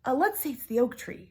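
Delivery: high unvoiced whisper; panicked whisper. Sisters whispering desperately to each other. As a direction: whisper fast to your sister. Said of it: "they whispered".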